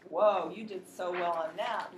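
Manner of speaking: put-on slow, loud praise for a child; excited praise. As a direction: cheer the child on.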